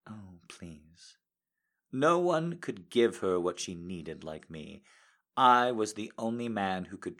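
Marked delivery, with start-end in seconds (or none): 0.1-1.2 breathy plea. Acted. Lover pleading in bed.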